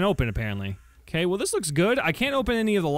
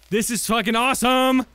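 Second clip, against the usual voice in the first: higher, thrilled exclamation; overreacting excitement; 5 semitones higher, 4 dB louder than usual. Real, not acted. Player thrilled by the exosuit find, overexcited cry. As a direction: burst out with unrestrained delight. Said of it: "I probably am overreacting".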